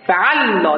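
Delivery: فعلا with a doubled lām, fe-al-lā; word demo. Shown as a demonstration. Teacher shows the class how to say فعلا. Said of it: "وزنش که فعلاست".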